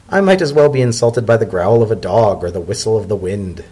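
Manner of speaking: brushing off a prince with amused calm; zebra elder. Acted.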